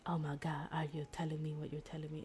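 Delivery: fast, breathless whisper; stunned whisper. Retold or imitated. Girl hearing his love confession, fast stunned whisper. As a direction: whisper it, hardly daring to believe.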